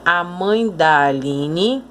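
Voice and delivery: slow, da swallowed into mãe; "mãe da" run together, "da" light and weak; weak unstressed da. Shown as a demonstration. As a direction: let "da" glide unstressed off "mãe". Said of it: "a pronúncia dele é fraca".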